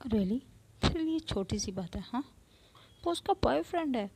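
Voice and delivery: loud, angry retort rising high. Acted. Neha glaring at Avantika, angry and rising high. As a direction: snap back, offended. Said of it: "Neha गुस्से से अवंतिका को देखती".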